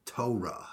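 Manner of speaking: "Torah" with a long stressed "toe" and a clear R; "Torah" with the R kept in; counterintuitive Boston pronunciation. Shown as a demonstration. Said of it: "it would be".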